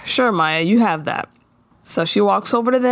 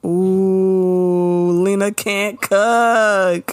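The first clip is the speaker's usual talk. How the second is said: long-drawn "ooh", then very slow taunt; petty teasing; much slower than usual. Pretend. Host gossiping that Lena can't cook, petty drawn-out teasing. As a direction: drag it out like a playground tease. Mock teasing about Lena's cooking.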